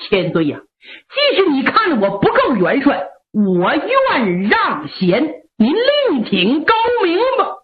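resign with wounded pride; a touch of anger. Acted. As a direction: marshal offering to resign, mildly angry. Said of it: "杨景一听火了".

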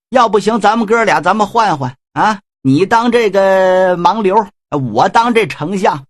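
high exclamation, then grumbling; a hint of a whiny schemer; indignant Shen Gongbao. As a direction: needle him with mock outrage. Shen Gongbao complains, provokes.

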